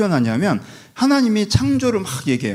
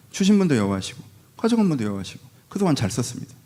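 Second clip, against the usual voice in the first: calm acceptance. Retold or imitated. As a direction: hand it back with a thank-you, gently. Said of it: "무상 렌탈이라는 걸 완전 인정하죠".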